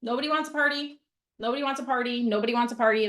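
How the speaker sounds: quick, rattled-off repetition of Nobody wants a party; mock self-pity, said fast; fast repeated mock story. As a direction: rattle it off like a looping thought. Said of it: "that's my story".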